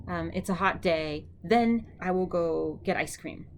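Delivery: slow, even example sentence; walk the class through the sentence slowly. Shown as a demonstration.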